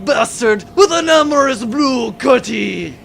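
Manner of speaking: furious pirate curse. Acted. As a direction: spit out the curses at full voice. Pirate captain cursing in rage.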